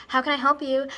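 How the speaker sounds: a hint of chirpy customer service; shop lady. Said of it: "this lady there and she was like".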